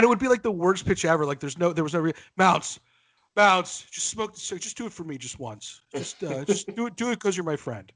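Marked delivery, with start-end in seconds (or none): 2.4-7.9 guilt-tripping. Retold or imitated. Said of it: "trying to guilt you into smoking".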